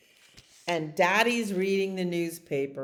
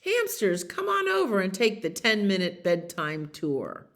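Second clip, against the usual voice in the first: lively announcer read; peppy hamster invitation; hamster's email read out; 4 dB louder than usual. Acted. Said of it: "he put out the email".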